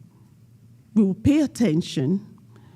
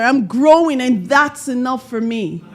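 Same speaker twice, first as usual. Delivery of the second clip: group affirmation; 4 semitones higher, 4 dB louder than usual. Shown as a demonstration. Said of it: "Let's say it together".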